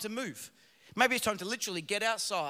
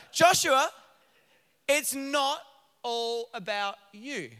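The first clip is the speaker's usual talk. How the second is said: mum's voice; 4 dB louder, slower than usual. Retold or imitated. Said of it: "I just heard my mum speak to me there".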